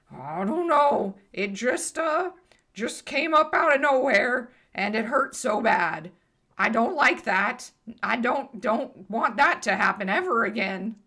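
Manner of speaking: lightly voiced talking pony, upset; hurt pony. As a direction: complain like a bewildered, sore pony. Game master voices hurt pony.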